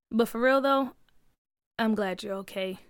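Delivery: understated, heartfelt; sincere. Acted. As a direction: admit care quietly to a friend. Junior drops bravado, sincere.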